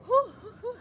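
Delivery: high panting whews after drinking; breathless whews. Real, not acted. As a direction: blow out short tired breaths. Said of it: "I was out of breath".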